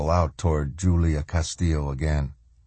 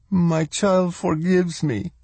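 Spanish woman voice; 12 semitones higher, slower than usual. Acted. Spanish woman speaks in awe.

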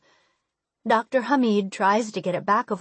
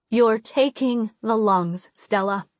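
firm. Acted. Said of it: "my mom says".

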